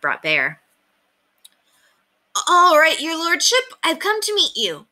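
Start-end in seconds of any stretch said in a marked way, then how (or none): 2.5-4.9 put-on high-pitched boy's announcement; put-on bravado, pitched well up; announcing boldly. A narrator's reading. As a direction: announce it brightly to cheer yourself on. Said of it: "William announced in a loud voice in order to cheer himself on".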